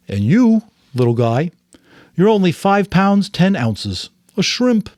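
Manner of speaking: put-on special baby voice. A narrator's reading. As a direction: coo at the tiny baby, fond and playful. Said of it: "That's the special voice he uses with Gabriel".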